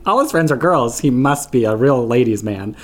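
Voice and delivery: mock insistence through laughter; parental denial. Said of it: "a lot of that denial".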